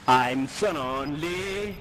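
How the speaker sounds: slow, mopey pretend sadness; mock lonely lament. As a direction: drag it out like a sad song. Alone in the match. (lamento finto e lento)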